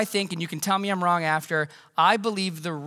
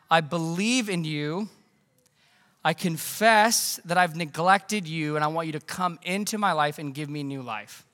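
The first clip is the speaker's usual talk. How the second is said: sincere prayer. Shown as a demonstration. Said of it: "say to Jesus".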